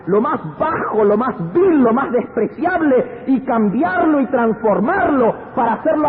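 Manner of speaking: high, emphatic pulpit proclamation; full-force preaching. Acted. Preacher tells congregation God transforms the lowest, fervent high preaching. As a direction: build each phrase as a triumphant proclamation.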